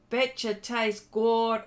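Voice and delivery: slow, tentative Texan drawl; lightly attempted Texan accent; attempted Texas accent. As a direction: try a Texas accent, drawn out. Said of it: "with the Texas accent".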